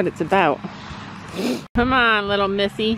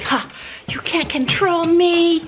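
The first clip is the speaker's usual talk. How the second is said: mock sassy horse voice; 6 semitones higher, slower than usual. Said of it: "she's like".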